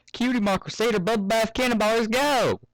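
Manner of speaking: fillies charge into the bath; excited battle cry. Acted.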